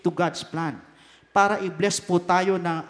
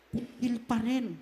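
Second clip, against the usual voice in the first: held back; 9 dB quieter, slower than usual. Acted. Restraining oneself after rage.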